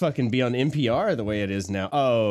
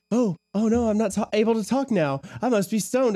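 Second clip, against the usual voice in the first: mock stoned voice; 11 semitones higher than usual. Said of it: "because I was like".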